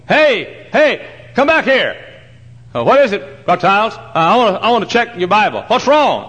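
high, urgent call to come back; retold exchange, voiced high and eager; calling after him. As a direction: hail the man across the room, pitched high. Acted chase after Bible signer.

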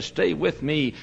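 hushed and begging; soft plea. Retold or imitated. Dying Paine pleading, soft take.

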